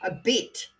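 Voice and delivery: "bit" with an Australian vowel, closer to "beet". Shown as a demonstration. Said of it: "That's Australian".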